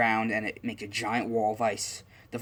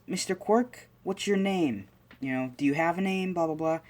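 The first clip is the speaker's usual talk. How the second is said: put-on much higher, boyish eager questioning; a kid politely addressing an invisible friend; young Izuku, eager; 7 semitones higher than usual. Izuku asks the invisible quirk its name, high and eager.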